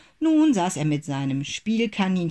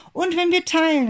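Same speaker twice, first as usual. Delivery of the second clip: higher, louder eager call; bright children's shout, much higher; 13 semitones higher, 6 dB louder than usual. A narrator's reading. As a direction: call it out like excited kids. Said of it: "riefen Manni und Lina".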